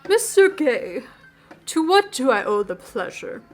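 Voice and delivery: a hint of a suave vampire; Damien voice. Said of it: "use that voice again".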